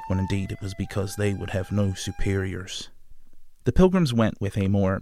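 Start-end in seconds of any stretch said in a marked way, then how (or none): 0.1-2.9 scoffing John Smith. Retold or imitated. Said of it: "He later scoffed".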